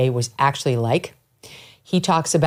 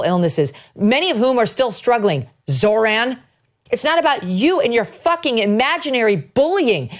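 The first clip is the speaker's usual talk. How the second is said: rising, higher-pitched indignant rant; impassioned anger; 6 semitones higher than usual. Real, not acted. Host rails at Mamdani over the victims, voice climbing in anger. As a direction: let the outrage climb to the last line.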